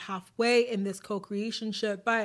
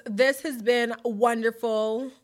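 posh put-on accent; 3 dB louder, slower than usual. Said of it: "What accent is that?".

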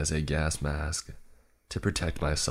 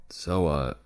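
pinched-nose nasal voice; nasally voice; much slower than usual. Acted. Narrator introducing himself, nose pinched, nasal. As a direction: talk with your nose held shut. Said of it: "I said in a nasally voice".

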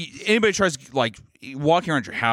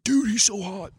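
higher, put-on gushing voice; mock swooning girl; 8 semitones higher, slower than usual. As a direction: gush like a fangirl, teasing himself. Imitating girls in audience.

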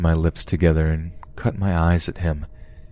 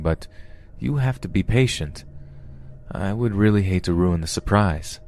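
chatty, polite captor; 2 semitones higher than usual. Acted. Captor telling his captive about his cooking, easy and chatty. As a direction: explain yourself as an over-comfortable host.

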